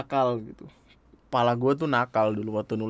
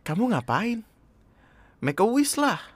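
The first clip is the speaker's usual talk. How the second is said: put-on boy voice; 9 semitones higher than usual. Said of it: "Udah, dua-duanya cowok".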